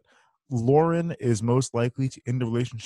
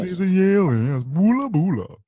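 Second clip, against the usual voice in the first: put-on middle Atlantic accent; 7 semitones higher, 4 dB louder than usual. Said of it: "it's a middle Atlantic accent".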